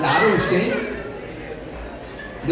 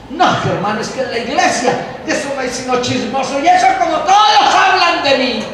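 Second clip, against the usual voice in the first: mock gossip complaint. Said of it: "El que dice".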